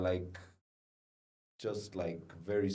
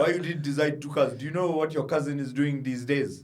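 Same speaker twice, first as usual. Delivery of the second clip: demanding dad; 3 dB louder than usual. Retold or imitated. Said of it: "my dad was like".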